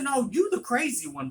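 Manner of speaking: loud, high retort; going in on her. Retold or imitated. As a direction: throw it straight back at her. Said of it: "I went in on her".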